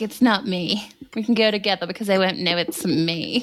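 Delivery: snide, mocking, put-on celebrity voice. Joking about a Met Gala outfit, impersonating Kim. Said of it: "that impersonation!".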